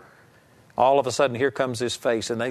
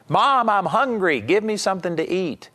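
a light hint of a child asking mom, higher; lightly voiced child, plainly asking for food; 6 semitones higher than usual. Preacher voices a hungry child asking mom, lightly. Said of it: "the way that a child comes in and says".

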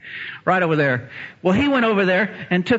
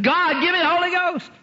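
high, ringing cry to God; fervent plea. Retold or imitated. Christy after reading scripture, high fervent plea. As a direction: beg heaven for it. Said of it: "she understood".

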